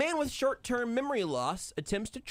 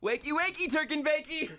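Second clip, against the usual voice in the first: sing-song wake-up call; 12 semitones higher than usual. Pretend.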